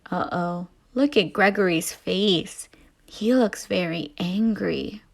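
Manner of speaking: put-on hushed whisper to children. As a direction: whisper so he won't wake.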